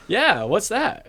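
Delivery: high-pitched imitation of a curious kid; little girl's question. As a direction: pipe it up like a small child. Child's question acted out.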